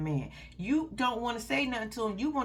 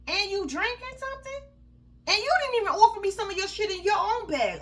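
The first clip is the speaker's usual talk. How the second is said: much higher, louder, incredulous; furious outrage; 10 semitones higher, 4 dB louder than usual. Real, not acted. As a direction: hit the roof in disbelief. Voicing the girlfriend's fury.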